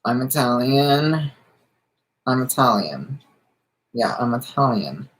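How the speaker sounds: slightly nasal singer impression; half-successful attempt at a slightly nasal celebrity voice. Streamer repeatedly trying the singer's voice for viewers, slightly nasal impression. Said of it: "That sort of nasally, that, that slight nasally".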